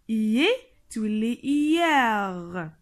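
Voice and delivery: "hier" drawn out slowly with open è; slow model word. Shown as a demonstration. Teacher showing the accent grave, slowly. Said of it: "on dit l'accent grave".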